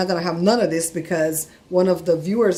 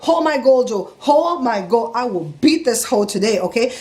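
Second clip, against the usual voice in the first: retold heated outburst; losing it; 2 semitones higher, 3 dB louder than usual. Customer to Joe after temperature went to three thousand, retold anger. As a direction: replay blowing your top, emphatic. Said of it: "So I, I lost it".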